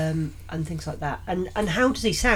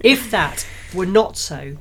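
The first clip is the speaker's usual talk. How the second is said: slower careful retake; corrected reread; 2 semitones higher, 5 dB louder, slower than usual. Shown as a demonstration. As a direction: reread the phrase slowly and properly. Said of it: "So I'm good at reading".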